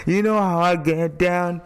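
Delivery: loud, high, imitated rap bravado; hammed-up rapper hype. Imitating a rapper's track at the party, hammed-up hype. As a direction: belt it out like a rapper's boast. Hamming up the rappers' song exchange.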